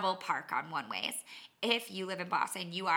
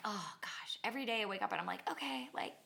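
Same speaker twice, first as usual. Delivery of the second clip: whispered, dragging morning sigh; barely voiced waking groan; mock weary whisper; 8 dB quieter than usual. Waking up sore, a whispered weary sigh. Groggy morning self-talk.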